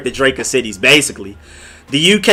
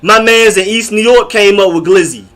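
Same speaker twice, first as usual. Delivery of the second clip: higher, insistent imitation of a New Yorker; lightly voiced New York boaster, pitched up; imitating New Yorker; 6 semitones higher, 3 dB louder than usual. New Yorker claiming they created the slang, mock insistence. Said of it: "Now New Yorkers are using it".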